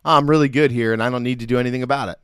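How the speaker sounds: quick, breezy mock-smug brush-off. Coach acting out a complacent believer, breezy mock smugness. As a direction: toss it off like you've got nothing left to prove. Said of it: "Complacency would be".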